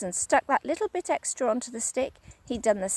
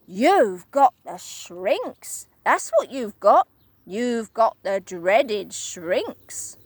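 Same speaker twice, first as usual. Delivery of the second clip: Mister Twit, gleeful; 4 dB louder than usual. Acted. Husband scaring his wife, gleeful. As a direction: drag out the bad news with glee. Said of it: "said Mister Twit".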